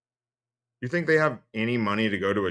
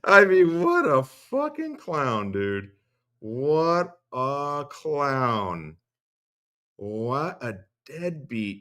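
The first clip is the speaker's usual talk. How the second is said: laughing contempt; 3 semitones higher, much slower than usual. Real, not acted.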